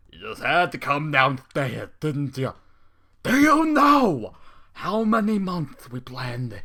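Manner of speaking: slow, loud, furious villain rant; angry snap. Acted. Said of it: "The unicorn snaps".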